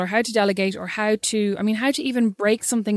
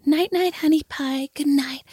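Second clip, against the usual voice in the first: a touch of a tender, higher goodnight coo; soothing lullaby voice; 4 semitones higher, slower than usual. Retold or imitated. Mother lulling her daughter to sleep over the phone, mock tender. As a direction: sweetly lull a daughter to sleep. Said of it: "lull her to sleep by going".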